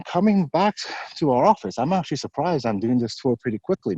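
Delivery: breathless from a brisk walk; winded, talking between breaths. Real, not acted. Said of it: "Maybe that's why I'm out of breath".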